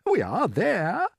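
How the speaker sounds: put-on old grasshopper rallying his friends; forced cheer. A narrator's reading. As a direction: put on a brave cheerful face. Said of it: "trying to be cheerful".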